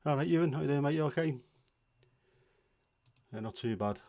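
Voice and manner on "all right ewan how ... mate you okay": cheery greeting. Real, not acted. Greeting a chat viewer.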